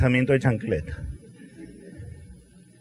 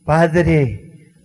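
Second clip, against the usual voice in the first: very slow, drawn-out pleading to the Father; anguished cry; much slower than usual. Retold or imitated. Jesus on the cross calling his Father: slow anguished plea. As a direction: stretch each word as a cry of abandonment. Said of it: "¿Cuál fue su grito?".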